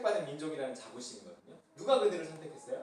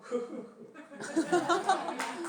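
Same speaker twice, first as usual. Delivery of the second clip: laughing; 12 semitones higher, 6 dB louder than usual. Real, not acted. Laughs mid-reading.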